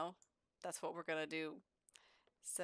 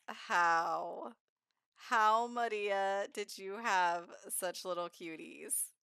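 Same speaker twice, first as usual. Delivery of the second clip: gushing; 6 dB louder, slower than usual. Real, not acted. Gushing over cute babies.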